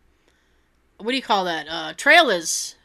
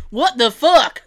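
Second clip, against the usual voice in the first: mock redneck shout in a Southern accent; 6 dB louder, slower than usual. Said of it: "I even gave you a Southern accent".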